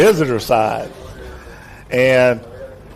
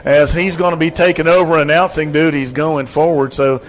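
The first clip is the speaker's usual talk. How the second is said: a light imitation of a choked-up announcer; Mike New impression. Retiring announcer thanking Cougar fans, lightly imitated. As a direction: lightly voice the old announcer signing off. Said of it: "I'm gonna do my best Mike New impression here".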